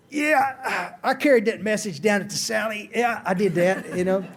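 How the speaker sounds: hammed-up self-satisfied brag; mock boasting. Man imagining bragging to others about carrying the message, mock smug.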